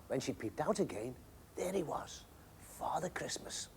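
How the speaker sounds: soft, breathless whisper; hushed whisper. A narrator's reading. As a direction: whisper it in wonder. Peeping out from under blankets.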